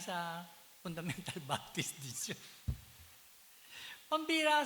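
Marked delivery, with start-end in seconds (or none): 4.1-4.7 high, loud outraged cry; loud exclamation. Retold or imitated. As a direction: blurt it out in disbelief. Angry in-law exclaiming. (sigaw na gulat at galit)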